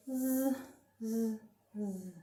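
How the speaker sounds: soft, buzzy snoring "zzz"; sleeping pandas. A narrator's reading. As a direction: snooze quietly like sleeping pandas. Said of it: "are fast asleep".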